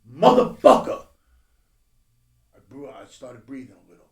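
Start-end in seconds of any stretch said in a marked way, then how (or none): 0.1-1.1 higher, louder shocked cry; a slow, rising Motherfucker; retold alarm. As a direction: relive the jolt of shock. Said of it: "I was like".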